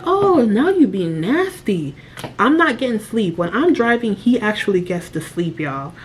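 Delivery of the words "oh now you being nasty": slow, drawn-out mock reproach; mock sassy remark. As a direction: tease him for being petty, slowly. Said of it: "I'm like".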